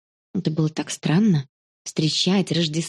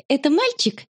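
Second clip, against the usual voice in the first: higher, tentative question; a touch of uncertainty, pitched up; unsure question; 8 semitones higher than usual. A narrator's reading. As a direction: ask it hesitantly. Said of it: "спросила она неуверенно".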